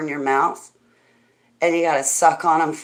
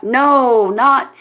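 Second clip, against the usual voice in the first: louder and higher no, not; quick correction; 7 semitones higher, 8 dB louder than usual. Real, not acted. Correcting chat that she means candy, loud correction. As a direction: cut off the misunderstanding fast.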